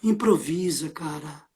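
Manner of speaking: low urgent whisper. Acted. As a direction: hiss it down the phone. Urging friend on the phone.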